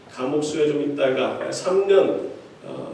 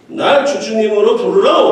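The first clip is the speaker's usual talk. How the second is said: accidental slip into North Korean dialect; a hint of North Korean dialect in a mock command; 2 semitones higher, 4 dB louder than usual. Chairman's son ordering lawyers, slipping into North Korean dialect. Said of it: "북한 사투리가 나와".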